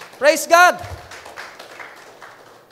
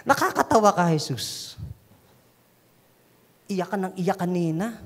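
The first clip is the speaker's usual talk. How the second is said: mocking scoff; 6 semitones lower, 3 dB quieter than usual. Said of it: "they laughed at him".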